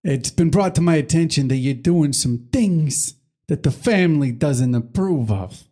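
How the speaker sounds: lightly voiced mafia don, slow at the end; a hint of a calm mob boss warning; mobster style. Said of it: "mobster style".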